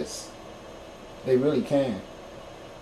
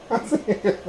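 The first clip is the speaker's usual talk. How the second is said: soft breathy laugh; 8 dB quieter than usual. Real, not acted. Laughter fit mid-story.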